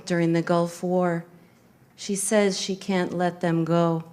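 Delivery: measured poetry recital, pausing after each phrase; poem reading. Acted. Reads own poem aloud.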